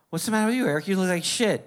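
high, blunt mother voice; blunt mom. Retold or imitated. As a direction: toss off the insult like a careless mom. Mom bluntly insulting son.

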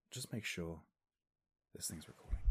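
whispered aside. Real, not acted. Whispering to himself about the recording. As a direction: breathe it under your voice. Checking the mic, paranoid.

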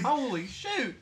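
very high, loud hick exclamation; Tow Mater. Retold or imitated. Quoting the Cars tow truck, cartoon hick yell. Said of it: "my old friend Tow Mater".

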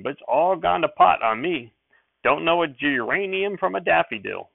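a bashful widower sheriff talking big; country sheriff. Acted. Sheriff tells Mother he knows nothing of gardens, folksy and loud.

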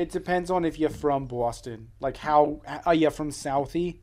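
slow, put-on Boston accent. Cohost challenging friend who says it's gone, mock Boston accent. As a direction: lay on a Southie Boston accent. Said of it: "the Boston accent isn't much of a thing".

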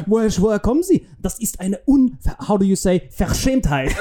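halting mock-British officer searching for German words; indignant, imitated British accent in German. British agent faking being German, mock British accent. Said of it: "diesen Akzent checkst".

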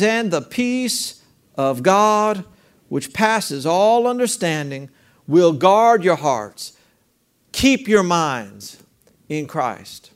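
slow, deliberate recitation of the verse; slow scripture reading. Shown as a demonstration. Preacher slowing down to read the promise to the church. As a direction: draw each phrase out like a blessing. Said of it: "And it says".

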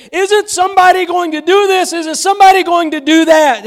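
high, exasperated complaint; imitating a frustrated Martha, pitched high; imitating fretful Martha. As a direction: sigh it out like the overwhelmed host. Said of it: "like Martha and we say".

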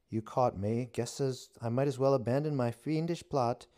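high, loud mock-villain witch. A narrator's reading. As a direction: play it pitched high and loud. Witch voice held.

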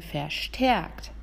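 "verstärkt" said slowly and deliberately; stress on VERSTÄRKT. Shown as a demonstration. Teacher correcting a possible misunderstanding, stressing "verstärkt". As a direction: underline the word "verstärkt", taking time over it. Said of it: "ich betone".

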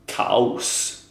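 "kaos" opening on a hard k. Shown as a demonstration. Guest giving example of hard-vowel rule, hard K in "kaos". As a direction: say "kaos" with plain K. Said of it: "då blir det K-ljud".

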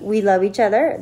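ordinary delivery

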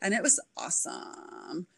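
lazy creaky vocal fry, Kardashian style; vocal fry demo. Shown as a demonstration. Demonstrating vocal fry to the podcast host, creaky and lazy. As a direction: let the voice creak and drag at the ends. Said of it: "vocal fry".

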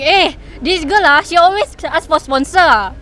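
put-on Bruneian accent. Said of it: "I love how she just changes her accent".

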